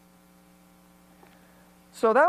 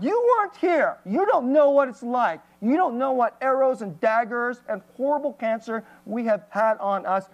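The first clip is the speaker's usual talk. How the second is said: raised voice, imitating a brother's anger; mock a hurt brother snapping back; retold angry outburst; 3 semitones higher than usual. Brother lashing out at the lecturing returnee, a retold angry rant. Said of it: "started getting really mad".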